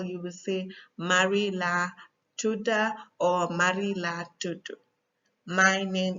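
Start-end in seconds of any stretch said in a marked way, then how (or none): 1.0-2.9 Gambian Wolof, "tuda" ending in "ah"; Gambian accent. Shown as a demonstration. Teacher showing how Marie gives her name, Gambian accent. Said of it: "tudu and tuda is just accent". 3.5-4.8 Senegalese Wolof, "tudu" ending in "oo"; Senegalese accent. Shown as a demonstration. Teacher showing how Marie gives her name, Senegalese accent. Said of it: "tudu and tuda is just accent".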